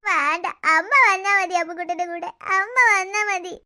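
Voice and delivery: low, teary whine; crying toddler plea. Acted. Little boy crying to his mother to come along. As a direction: beg through tears.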